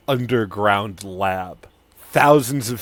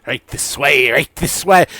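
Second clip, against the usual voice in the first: Sidon NPC voice; 2 semitones higher, 7 dB louder than usual. Acted.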